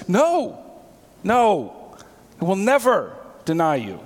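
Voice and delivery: high, insistent protest; emphatic denial. Retold or imitated. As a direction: Peter swearing he never will, pitch jumping up. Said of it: "But Peter is emphatic".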